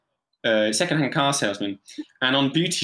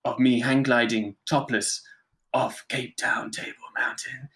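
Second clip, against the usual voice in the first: put-on Spanish accent. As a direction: show off with a mock-seductive Spanish accent. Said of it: "he would talk like this".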